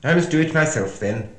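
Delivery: loud, high, haughty queen voice; bossy Red Queen. Acted. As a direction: lord it over everyone.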